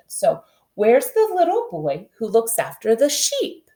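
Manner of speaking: "sheep" lifted at the end like a question; question rise. Shown as a demonstration. Teacher showing how a question mark sounds. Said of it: "our voice is gonna go up".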